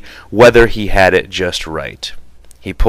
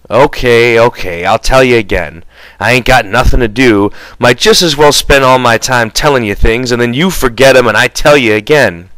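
louder, resigned grumble; weary George; 2 semitones higher, 3 dB louder than usual. Acted. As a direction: sigh it out as a chore.

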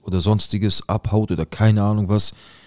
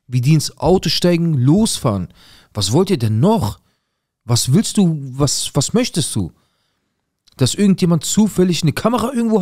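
much higher, louder raging rant; escalating outrage, pitch climbing to a near shriek; furious rant; 7 semitones higher, 3 dB louder than usual. Retold or imitated. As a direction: tear into the police officer. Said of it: "ich bin durchgedreht".

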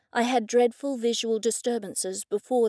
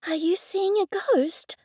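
urgent; 8 semitones higher than usual. A narrator's reading. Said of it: "Laura asked urgently".

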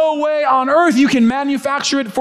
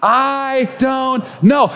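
called-out I don't know; 3 semitones higher, much slower than usual. Shown as a demonstration. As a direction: lead the room in saying it aloud. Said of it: "Say it with me".

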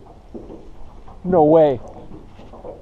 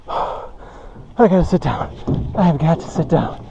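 slow, breath-spent words; 3 dB quieter, slower than usual. Real, not acted. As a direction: let it out winded, needing a seat. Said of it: "I'm out of breath".

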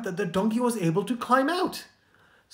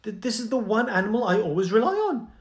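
higher, anxious cry for his donkey; distraught owner who just lost his best helper; panicking farmer; 5 semitones higher than usual. Acted. Farmer finding his donkey in a hole, panicked and higher. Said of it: "And he started panicking".

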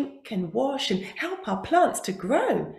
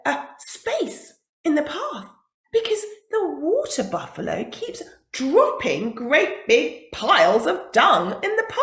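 busy beetle voice; 6 semitones higher, 4 dB louder than usual. Acted. Dung beetle explaining.

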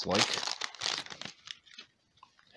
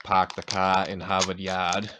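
a light, mock Boston accent, dropped R's; hint of Boston, park the cah in Hahvahd Yahd; a touch of a stereotypical Boston accent; 5 dB louder than usual. Shown as a demonstration. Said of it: "the stereotypical New England accent".

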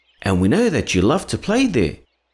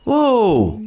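high, startled exclamation; surprised whoa; 10 semitones higher, 3 dB louder than usual. Acted. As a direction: stop them short, startled. Breaking up the kids' quarrel.

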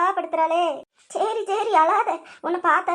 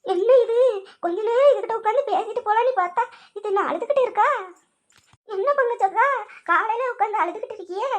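a higher neighbour voice, concerned; the nosy neighbour finding her friend in tears, pitched higher; lightly voiced neighbour; 4 semitones higher than usual. Neighbour asks the crying mother-in-law why she weeps, lightly voiced higher.

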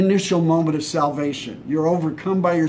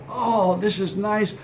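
mock contentment; 3 semitones higher than usual. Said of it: "what was the disciples' reaction".

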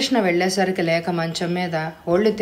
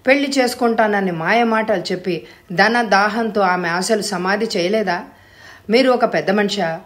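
angry; 3 semitones higher, 3 dB louder than usual. Acted. Praveen confronts the father angrily.

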